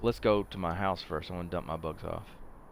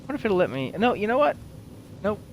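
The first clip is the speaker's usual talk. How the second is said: much higher and louder, eager sudden idea; excited; 6 dB louder than usual. Real, not acted. Gamer hitting on a sudden idea in the game. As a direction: jump on the idea.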